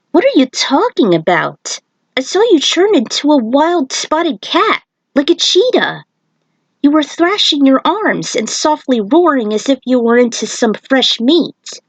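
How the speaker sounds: a hint of an amazed shaman; lightly voiced Nightwolf. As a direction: Nightwolf tells Kung Lao what he saw, mildly amazed. Nightwolf describes the cheetah.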